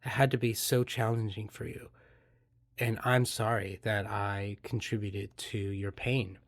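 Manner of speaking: quiet, tender apology to a partner; empathic reply. Shown as a demonstration. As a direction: say it like you truly feel their hurt. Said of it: "listening with empathy ... and say".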